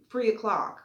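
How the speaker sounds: UK accent, three o'clock with an F, fre o'clock; a light UK accent, three as free. Shown as a demonstration. Showing viewers the landlord's UK accent, fre o'clock. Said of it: "that's the kind of accent he has".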